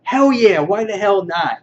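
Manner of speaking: a quick burst of eager agreement; mildly hyped yes. Retold or imitated. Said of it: "he's like".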